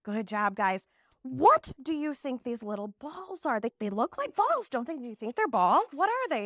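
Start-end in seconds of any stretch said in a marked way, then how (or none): 1.2-6.5 put-on teacher asking kids. Shown as a demonstration. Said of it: "teacher questioning pretend class".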